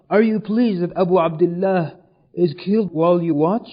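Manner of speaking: loud, impassioned accusing question; indignant challenge in a storyteller's voice; retold reproach. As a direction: confront him as he stands by. Zainab confronts Umar, retold.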